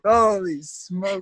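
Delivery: slow, drawn-out amazement; retold shock. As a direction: react stunned, dragging out the words. Retold shocked reaction to near stabbing.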